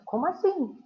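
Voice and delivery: incredulous rise; surprised question. Shown as a demonstration. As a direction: react in disbelief. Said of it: "alguns exemplos de frases".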